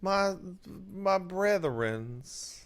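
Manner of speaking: slow, drawn-out preacherly brethrens; hammed-up sermon voice; mock preacher. Mock grand speech.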